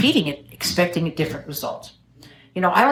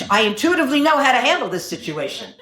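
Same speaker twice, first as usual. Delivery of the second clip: higher, self-important politician with a laugh; mock pompous politician; 6 semitones higher than usual. Speechwriter mocking a politician's speech, hammed-up pompous voice. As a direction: send up a politician bragging to a crowd. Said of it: "they would say things".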